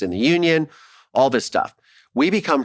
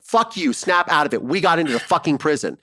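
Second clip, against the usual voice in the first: excited retold cursing; 4 semitones higher than usual. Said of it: "I'm like".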